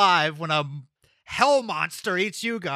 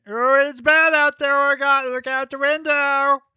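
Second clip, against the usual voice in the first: higher, louder echoed plea; loud urgent relay; 7 semitones higher, 6 dB louder than usual. Acted. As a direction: pass the warning on urgently. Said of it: "Do I need to be Orgot?".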